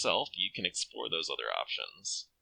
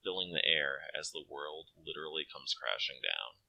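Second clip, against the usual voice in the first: calm storyteller reading of the game text; game narration. A narrator's reading. Player reading the game over text, calm narration. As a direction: narrate the grim accident evenly, like a story.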